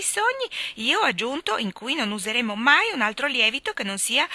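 lightly voiced pleased girl; a hint of self-satisfied chatter; proud speaker. She tells what she did. (ragazza fiera di sé)

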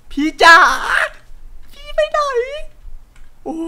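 very high desperate call; shrill calling. Acted. Player calling the lost sister, very high desperate cry. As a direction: scream for her into the dark.

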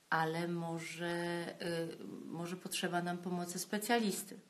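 soft, slowish and gentle, coaxing; calm gentle tone. Shown as a demonstration. Gently asking a partner what is wrong, calm and soft. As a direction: speak softly like asking a worried partner. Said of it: "ze spokojnym tonem powiedzieć, spokojnym tonem".

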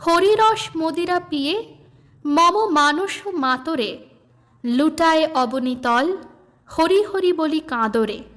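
slow, lilting recitation of a devotional song; recited song verse. Acted. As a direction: read the hymn as gentle verse. Song lyrics recited by reader.

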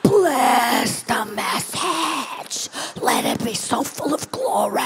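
very slow, drawn-out prayer that breaks into a cry; fervent prayer. Acted. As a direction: plead over the notes slowly, voice breaking. Fervent prayer over her notes.

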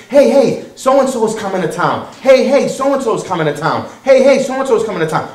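mock-excited, repeated call; excited announcement. Eager followers announcing a visiting teacher, excited. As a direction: hype it up like an eager fan.

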